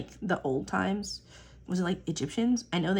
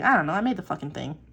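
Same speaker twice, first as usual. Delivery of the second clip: exasperated; 2 semitones lower, 6 dB louder than usual. Retold or imitated. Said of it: "other times I'm just like".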